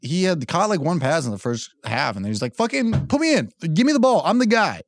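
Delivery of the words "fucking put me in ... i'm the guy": higher pitched imitating yell at the coach; hammed-up demand to be put in the game, pitched up; mock yell. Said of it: "when he yelled at the coach".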